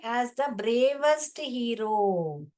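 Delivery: very slow, word by word; very slow reading. Shown as a demonstration. Teacher reading the textbook line very slowly. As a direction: read it out slowly for the class. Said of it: "teacher reading text slowly".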